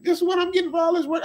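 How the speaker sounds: incredulous high-voiced gripe; acted-out complaint, high and put-upon; high-pitched complaint. Voices own past complaint about pay.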